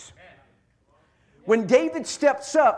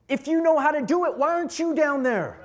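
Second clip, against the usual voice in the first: challenging; 5 semitones higher than usual. Acted. Challenging the critics.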